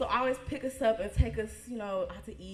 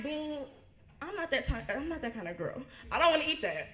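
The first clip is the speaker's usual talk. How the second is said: put-on young self, refusing; 6 semitones higher than usual. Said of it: "I'm like".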